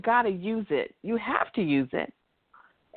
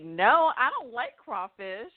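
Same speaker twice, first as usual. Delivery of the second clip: 1 blunt no; slower than usual. Shown as a demonstration. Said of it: "I could say".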